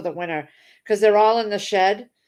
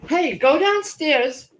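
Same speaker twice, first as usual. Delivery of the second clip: higher and louder, slow commands; calling out firmly; 9 semitones higher, 7 dB louder, slower than usual. Real, not acted. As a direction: shoo the dog off the box. Shooing the dog away.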